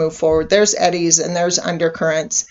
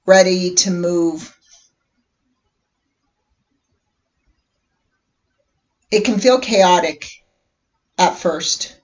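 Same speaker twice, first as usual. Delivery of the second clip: unhurried meditation guide with long pauses; guided meditation. Acted. Inviting listeners to relax and imagine a vehicle, guided meditation voice. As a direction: gently lead listeners inward, leaving space between phrases.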